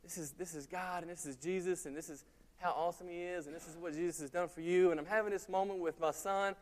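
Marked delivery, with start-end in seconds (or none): 0.0-4.9 put-on hushed, earnest explaining to a small boy; soft teaching voice. Father gently telling his young son about Jesus, hushed. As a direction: speak softly as if sitting a child down. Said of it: "I said".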